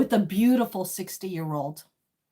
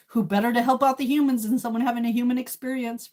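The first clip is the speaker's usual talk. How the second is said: laughing; 3 semitones higher, 3 dB louder, faster than usual. Real, not acted. Laughing through the line.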